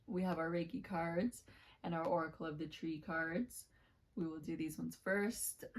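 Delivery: a scratchy, rough throat. Real, not acted. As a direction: speak through a scratchy voice. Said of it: "Pardon me and my scratchy voice".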